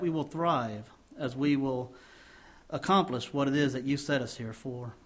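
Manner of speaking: earnest pastor's prayer to the congregation; closing prayer. Acted. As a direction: pray it reverently, steady and sincere.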